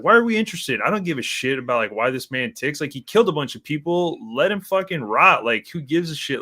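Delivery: scoffing, dismissive rant; mock exasperation. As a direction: brush it off like it's obvious. Mocking people who study killers.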